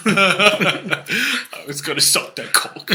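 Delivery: slow, laughing through the words. Pretend. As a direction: giggle through it. Laughing role play.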